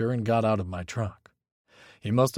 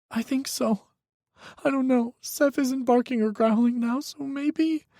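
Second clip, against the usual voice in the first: put-on high, tense young voice; a frightened young man pleading on the phone; young man, scared. A narrator's reading. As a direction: Micah telling Hawk his ex is dangerous, high and scared. Micah's voice, whimpering.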